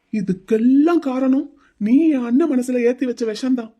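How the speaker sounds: angry retort. Acted. Groom rages about sister Vini.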